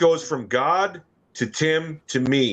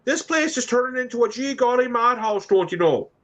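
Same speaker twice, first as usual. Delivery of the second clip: higher, light imitation of the cartoon mother; Bobby's mom impression; 9 semitones higher than usual. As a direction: doe de moeder uit Bobby's World na, hoger. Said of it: "his mother used to say that".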